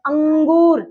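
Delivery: "अंगूर" with the अं hummed through the nose; nasal sound. Shown as a demonstration. Teacher shows pupils the anusvar, nasal अं held in "अंगूर". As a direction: push the अं of "अंगूर" into the nose, drawing it out. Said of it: "नाक से".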